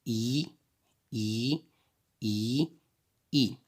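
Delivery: "i" repeated as a separate pure vowel; isolated vowel sound. Shown as a demonstration. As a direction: say each "i" alone, softly, evenly spaced. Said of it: "sont le son i".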